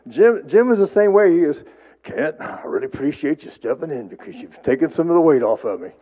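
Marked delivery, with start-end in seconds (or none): 2.0-5.9 put-on lightly lowered voice of an old friend; a hint of Jim's deeper tone; gently imitating his friend's voice. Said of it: "he has a deep voice".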